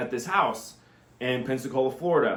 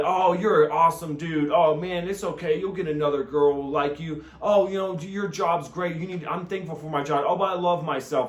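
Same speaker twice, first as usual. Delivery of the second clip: mock soothed voice; 4 semitones higher than usual. Mocking soothed high after smoking.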